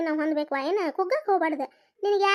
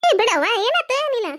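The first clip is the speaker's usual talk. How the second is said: higher, louder surprised protest; startled; 6 semitones higher, 7 dB louder than usual. Acted. Elder sister, startled by the apology, protests loudly. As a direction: jump in, taken aback.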